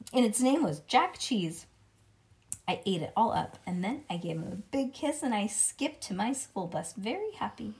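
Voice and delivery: put-on lively read-aloud as a little kid narrator; chatty kindergartner storytelling; children's story narration. A narrator's reading. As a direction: read it to a child with bouncy emphasis.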